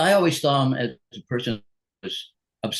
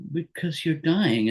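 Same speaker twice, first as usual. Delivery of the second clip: mild imitated grief; 6 semitones higher, slower than usual. Retold upset partner's reply.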